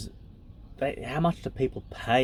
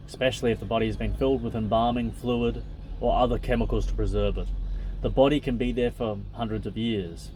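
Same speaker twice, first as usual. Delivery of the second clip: even, measured reading voice; book reading. Acted. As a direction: read the passage out steadily. Reads the book aloud.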